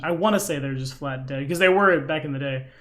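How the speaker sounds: usual speaking voice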